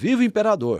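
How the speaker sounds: high, cheering voice. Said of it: "fez uma saudação".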